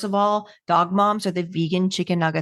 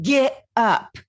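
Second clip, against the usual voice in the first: higher, half-shouted drill-sergeant mom; hammed-up screaming soccer mom, pitched higher; mock sideline yelling; 6 semitones higher than usual. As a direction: bark at the kid like a boot-camp sergeant on the sidelines. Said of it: "I'm screaming at my daughter".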